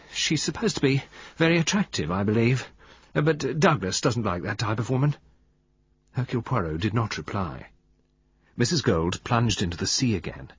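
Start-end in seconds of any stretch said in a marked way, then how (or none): 0.1-5.1 cold. Acted. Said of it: "her voice was cold".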